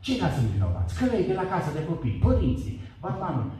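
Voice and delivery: high, heated protest blaming everyone; defiant outburst. Retold or imitated. Man arguing with God that others are guilty, in a high heated voice. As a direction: throw the blame at them, rising.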